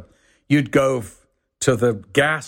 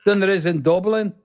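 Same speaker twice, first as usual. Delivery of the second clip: quick, high Liverpool-Irish lilt; Scouse with a bit of Irish, pitched up; Irish-tinged Scouse; 5 semitones higher, faster than usual. Shown as a demonstration. Showing Liverpool's Irish side, lilting Scouse accent. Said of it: "a bit of Irish, too".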